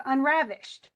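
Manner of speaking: unravished with RAV drawn out and punched; stress on RAV. Shown as a demonstration. Teacher showing a student the beat in unravished, stress on RAV. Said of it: "you can hear me kind of stress it".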